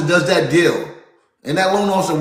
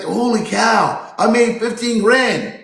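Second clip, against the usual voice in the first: mock thrilled quote, slow start, pitch climbing higher; imitating excited loan officer; 5 semitones higher, slower than usual. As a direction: play the loan officer who can't believe the payout. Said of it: "And they're excited".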